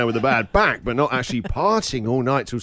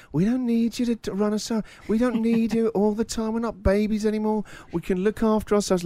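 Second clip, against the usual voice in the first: put-on higher, whiny teenage brush-off; mocking teen voice; 7 semitones higher than usual. Dad mimics his kids: higher whiny teen brush-off. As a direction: mimic the kids telling dad he's not needed.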